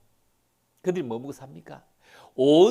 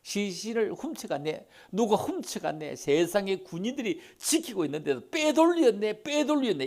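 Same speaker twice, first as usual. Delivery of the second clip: a hint of scandalized gossip, rising higher; the guards' rumor; 5 semitones higher than usual. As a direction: voice the people spreading the rumor. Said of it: "이거죠". (시신을 도둑맞았다고 수군대는 사람들, 놀란 말투)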